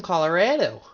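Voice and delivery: Colorado with the A of "add"; flat long A in Colorado. Shown as a demonstration. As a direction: say "Colorado" with "rad" in the middle, not "rod". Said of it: "That's a long A".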